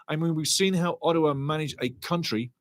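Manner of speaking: ordinary talk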